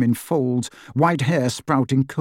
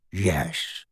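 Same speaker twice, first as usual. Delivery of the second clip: slow, low croaking reply; old house elf bowing resentfully; grudging elf; 6 semitones lower, 6 dB quieter than usual. A narrator's reading. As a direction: drag out a sullen yes. Kreacher answers.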